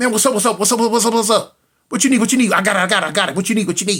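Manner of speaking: quick, looping, rapid-fire, repeated patter. Retelling how Quan used to pop up everywhere, imitating Quan talking fast. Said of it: "He used to talk real fast".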